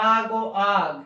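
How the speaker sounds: আগ ও আগ with an open "aa" and hard g; pronunciation demo. Shown as a demonstration. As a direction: sound out আগ ও আগ as "aag". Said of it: "ইউজি এর উচ্চারণ হচ্ছে". (আগ ও আগ, খোলা "আ" দিয়ে স্পষ্ট উচ্চারণ)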